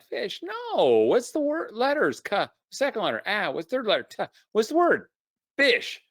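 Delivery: mock exasperation at a kid who won't get it; exasperated parent. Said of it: "And we're like".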